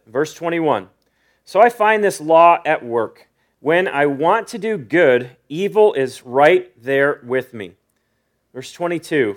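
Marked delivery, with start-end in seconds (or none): 1.4-7.8 slow, emphatic scripture reading. Real, not acted. Preacher reading verse twenty-one to the congregation, slow and deliberate. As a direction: read the verse slowly, leaning on key words. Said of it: "read it pretty slow".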